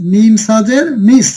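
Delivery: slow, careful spelling aloud; teacher modelling syllables slowly. Shown as a demonstration. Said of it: "মিম সাজের কি হবে?".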